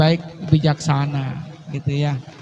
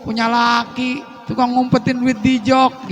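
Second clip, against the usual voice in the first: higher, sharp nagging complaint; nagging wife; 5 semitones higher, slower than usual. Retold or imitated. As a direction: scold the husband for hiding money. (istri mengomel dengan nada tinggi)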